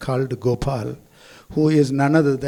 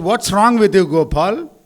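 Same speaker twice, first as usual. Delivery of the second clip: retold shout; 5 semitones higher, 5 dB louder than usual. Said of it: "the driver shouted at him".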